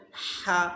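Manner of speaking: হা breathed out from the throat like fog in winter; breath-like h demo; breathy throat ha. Shown as a demonstration. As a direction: exhale হা from mid-throat. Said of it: "শীতের সময় যেমন হা করলে".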